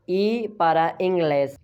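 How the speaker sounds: slow "ई para इंग्लिश", ending "-gles"; Spanish example phrase. Shown as a demonstration. Teacher links vowel to word, slow ई para इंग्लिश. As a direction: hold ई, then say इंग्लिश as "een-GLES". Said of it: "ई से क्या बनता है?".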